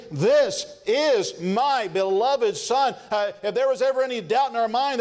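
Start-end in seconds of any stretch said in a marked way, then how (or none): 0.1-3.0 very slow, solemn proclamation; voice of God. Retold or imitated. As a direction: stretch out 'This is my beloved son' word by word, rising at the end. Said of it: "and I heard God say".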